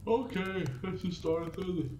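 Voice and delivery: a high Okay, then a drawn-out slow let's get started; teasingly slow kickoff for the viewers; slow mock start. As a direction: stretch it out like a lazy showman opening. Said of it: "Hope you liked me slowly starting the thing".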